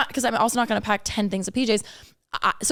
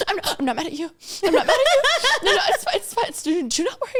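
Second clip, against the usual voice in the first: high, mock-weepy voice; squeaky crying-voice impression, half laughing; imitated tearful reassurance; 9 semitones higher, faster than usual. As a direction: imitate a friend protesting through tears. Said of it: "and then crying".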